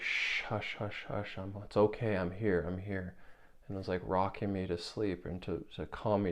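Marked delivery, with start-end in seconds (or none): 0.0-3.1 soothing mother. Retold or imitated. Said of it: "the mother was like".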